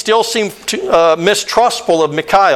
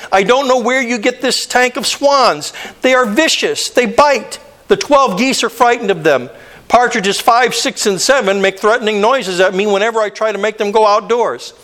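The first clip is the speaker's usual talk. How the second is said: exasperated; 3 semitones higher than usual. Acted. Exasperated writer complains about swans.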